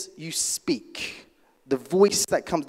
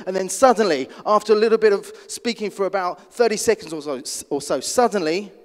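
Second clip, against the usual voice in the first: building energy; 3 semitones higher, 5 dB louder than usual. Shown as a demonstration. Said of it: "You start to bring in the energy".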